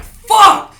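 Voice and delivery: high, loud mock curse; dismayed yelp. Recruit facing a beating, retold as a high dismayed yelp.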